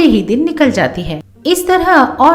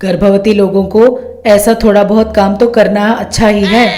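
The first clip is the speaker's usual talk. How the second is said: firm, louder scolding mother-in-law; bossy mother-in-law; 3 dB louder than usual. Acted. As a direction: boss the pregnant daughter-in-law around. Mother-in-law orders daughter-in-law. (रौबदार सास की डाँट)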